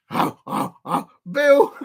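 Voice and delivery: laughing through the word Bill; cracking up mid-guess. Real, not acted. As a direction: giggle out Bill. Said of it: "laughing while guessing".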